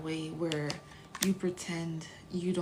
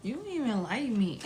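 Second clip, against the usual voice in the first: higher, swooping playful protest; hammed-up incredulous complaint; mock indignant; 4 semitones higher, 3 dB louder than usual. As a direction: call out a hater in amused disbelief. Acted telling-off of a hater.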